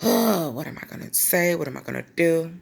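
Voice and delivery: a touch of dismay; mild acted panic. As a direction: sigh and fret over what to do, lightly dramatized. Acts out own panic at accident.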